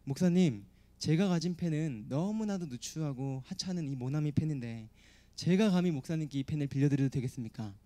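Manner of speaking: a touch of humble caution; careful, humble request. Acted. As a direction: offer it timidly to a revered pastor. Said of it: "너무 조심스럽게 말씀드렸어요".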